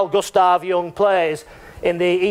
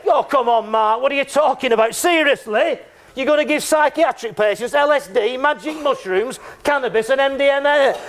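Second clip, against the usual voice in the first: incredulous critics; 6 semitones higher than usual. Retold or imitated. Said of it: "And then people say".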